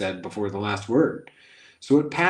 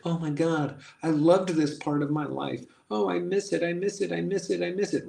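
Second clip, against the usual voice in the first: mock nostalgia; 7 semitones higher than usual.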